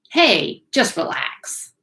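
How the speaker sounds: high "Hey", then slow, hushed "just relax"; mock soothing. Teacher mimics someone in the room coaxing you to relax, slow mock soothing. Repeats the advice in softer, slower manner.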